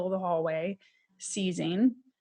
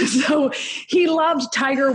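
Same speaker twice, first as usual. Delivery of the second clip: laughing; 6 semitones higher, 7 dB louder, slower than usual. Real, not acted.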